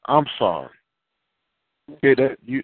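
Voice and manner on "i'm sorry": low, plainly meant sorry; believable apology. Acted. Child warned by a parent, now apologizing believably. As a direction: apologize simply, as if you mean it. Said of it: "that's believable".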